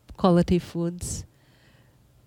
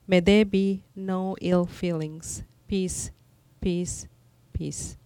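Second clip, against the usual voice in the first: calm meditative tone. Acted. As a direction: bless them gently, line by line. Translating the chant, prayer-like.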